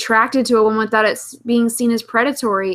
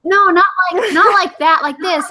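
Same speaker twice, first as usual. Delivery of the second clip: put-on high girly voice; 7 semitones higher, 4 dB louder than usual. Shown as a demonstration. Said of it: "Oh my".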